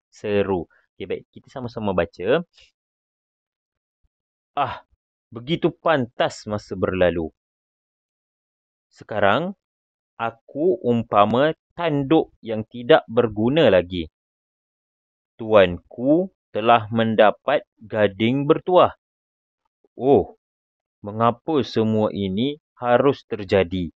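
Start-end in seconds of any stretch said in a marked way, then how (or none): 4.5-7.3 slow, expressive exclamation; heartfelt exclamatory reading; with feeling. Shown as a demonstration. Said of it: "baca dengan intonasi perasaan". 8.9-23.9 slow, dramatic exclamations; expressive lament read aloud; with feeling. Shown as a demonstration. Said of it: "baca dengan intonasi perasaan".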